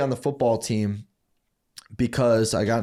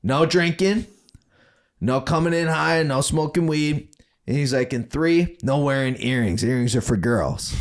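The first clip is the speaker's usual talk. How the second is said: high, firm laying down the law; a strict old coach listing rules; stern coach rules; 5 semitones higher than usual. Retold or imitated.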